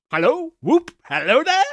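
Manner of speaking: high, loud whooping call; joyful whoop. Acted. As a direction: holler it out with glee. Scrooge whooping with joy.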